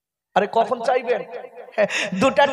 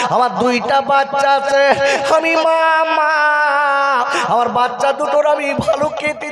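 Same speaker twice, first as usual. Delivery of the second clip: a hint of a grieving mother begging the prophet for help; mildly lamenting old woman; wailing widow. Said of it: "বলে".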